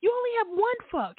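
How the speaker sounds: high-pitched exasperated telling-off; scolding mom. Retold or imitated. Mom to son about his swearing, exasperated scolding. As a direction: correct your kid in a high, disbelieving voice.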